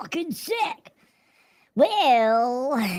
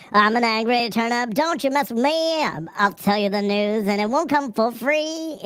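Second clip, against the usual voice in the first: a hammed-up cranky vegetable newscaster; angry turnip voice. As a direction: streamer improvising an angry turnip giving the news. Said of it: "You can't do a turn-up voice?".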